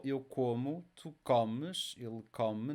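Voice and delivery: "como, comes, come" each stressed on CO; next-to-last stress. Shown as a demonstration. Teacher drilling word stress, CO stressed in "como, comes, come". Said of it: "next to last syllable".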